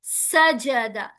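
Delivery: "सजदा" as three slow, equal syllables sa-ja-da; correct even syllables. Shown as a demonstration. Teacher modelling "सजदा" correctly, slow and even. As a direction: space out "सजदा" evenly, no long vowel. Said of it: "साजदा नहीं पढ़ना".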